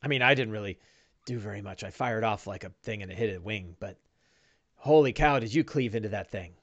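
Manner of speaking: lightly voiced deferential squire, soft and polite; a hint of a humble servant saying sir to his master; servile sidekick. GM voices Bing.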